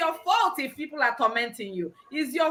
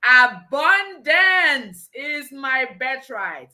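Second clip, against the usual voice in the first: very slow, stretched declaration; emphatic affirmation; 4 dB louder, much slower than usual. Shown as a demonstration. Host leading viewers to say it with her, emphatic affirmation. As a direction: proclaim it, drawing out each word. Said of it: "say it with me again".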